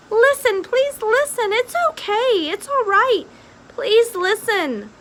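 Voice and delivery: high, loud frantic pleading; desperate pleading. A narrator's reading. Rat begging the screaming princess, high frantic pleas. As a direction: beg her to listen, frantic.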